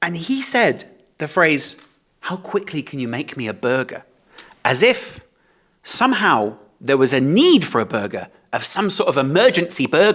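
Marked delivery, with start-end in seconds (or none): 2.2-4.0 put-on middle class accent, lower and quieter. Retelling what a customer said in a chicken shop: imitating a middle class accent. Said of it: "with a middle class accent".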